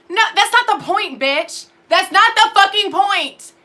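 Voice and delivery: rising heat, punching point; angry retort. Real, not acted. Ranting back at the Blue Lives Matter crowd, angry. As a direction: snap back hard at the critics. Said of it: "ranting at critics".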